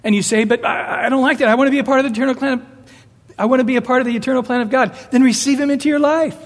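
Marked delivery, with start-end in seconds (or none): 0.4-5.0 whining objector. Pretend. Objector voiced, fast whining.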